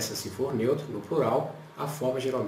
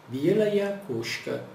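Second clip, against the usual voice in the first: slow model phrase; 4 semitones higher, much slower than usual. Shown as a demonstration. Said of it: "Como é que eu digo isso?".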